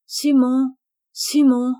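plain reading voice

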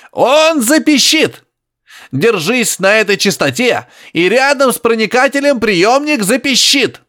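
high, slow grunting insistence; high grunting professor. Acted. Professor insisting to Harry over radio, high grunting. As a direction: press it on him, high and piggy.

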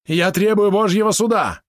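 high, loud cry for a trial; shouted demand. Acted. Polot demands trial by combat, shouting high and loud. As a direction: scream the demand at the prince. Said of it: "крикнул Белозерец".

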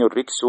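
الركس as ar-riks, short 'i' after the ra; with a kasra. Shown as a demonstration. Teacher quoting al-Fayyumi's definition, with a kasra. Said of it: "بالكسر هو الرجس".

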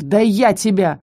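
growled threat. A narrator's reading. Count threatening the little beast, growled. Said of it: "рыкнул граф".

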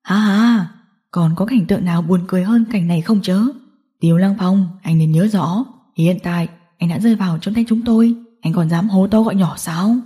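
lightly voiced gang boss, amused; low mocking taunt with a read-out chuckle; gloating villain. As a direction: gloat over the captured man.

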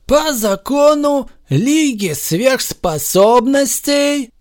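slow, high, ceremonial proclamation; solemn verdict voice; solemn announcement. A narrator's reading. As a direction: proclaim like a judge. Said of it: "торжественно объявил Супермен".

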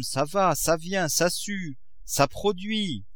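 lightly voiced coaxing miser, lively lilting tune; a hint of a cajoling old father; wheedling father. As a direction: coax the daughter like a doting schemer.

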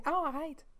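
light, high diphthong on "arrête"; demonstrated pronunciation. Shown as a demonstration. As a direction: quietly draw "arrête" into ah-RITE. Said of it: "je te dis".

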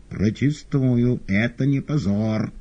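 slow, high loud yell; cat yelling. Acted. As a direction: yell your protest as the cat. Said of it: "орал кот". (громко орёт, медленно и высоко)

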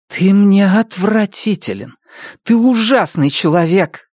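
slow, contemptuous denunciation; disgusted. A narrator's reading. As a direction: tell him he sickens you. Annabelle denounces him. (с отвращением)

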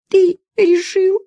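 sobbing woman challenges his decision; sobbing question. Acted. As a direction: ask it through a sob. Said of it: "всхлипнула женщина".

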